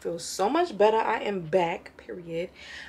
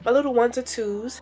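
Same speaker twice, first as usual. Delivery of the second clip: breathless, talking between breaths; winded from asthma, pushing through; 5 semitones higher, 4 dB louder than usual. Real, not acted. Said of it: "If it sound like I'm out of breath".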